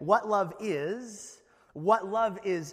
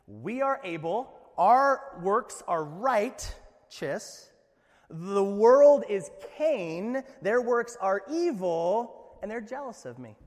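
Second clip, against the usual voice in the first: slow, louder, smug pump-up speech, half in jest; mock self-righteous boast; 5 dB louder, slower than usual. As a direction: puff yourself up like a smug preacher, tongue in cheek. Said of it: "That was a great pump me up".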